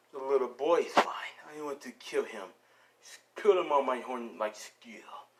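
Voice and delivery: a hint of a menacing brute; lightly voiced Rhino villain. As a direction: lightly play a brute staking his claim.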